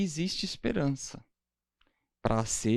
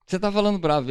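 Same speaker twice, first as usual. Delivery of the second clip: 1 mock annoyed accusation; 5 semitones higher, 4 dB louder, much faster than usual. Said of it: "esse o seu tom de voz".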